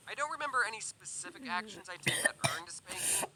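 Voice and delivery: hushed confiding whisper; whispered aside. Acted. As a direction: let it slip as a secret.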